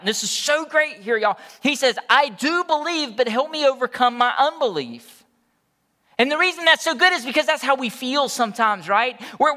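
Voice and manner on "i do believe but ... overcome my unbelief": father's plea cried out high and loud; crying out. Retold or imitated. Father crying out to Jesus for his son, loud and high. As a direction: cry it out like a father at his wit's end. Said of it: "the father instantly cried out".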